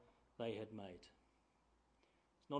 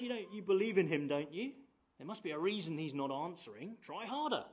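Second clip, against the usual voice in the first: lively goading, raised at the ends; mock encouragement; 3 semitones higher, 4 dB louder than usual. Elijah to prophets whose god won't answer, mock encouraging. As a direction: needle them as if cheering them on. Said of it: "he gives them some encouragement".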